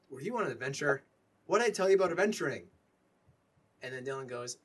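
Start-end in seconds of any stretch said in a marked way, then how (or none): 0.1-2.6 stern dad scolding his son, louder and faster at the end; angry father scolding a runaway son. Acted. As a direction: tell the boy off for adventuring.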